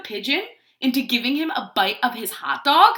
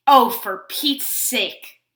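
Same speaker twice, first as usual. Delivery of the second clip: exasperated; 6 dB louder, much slower than usual. Acted. Exasperated Pigeon.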